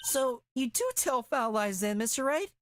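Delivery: high, stumbling, oddly phrased accusation; a botched, strained high delivery; awkward high reading. Acted. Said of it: "I said that weird".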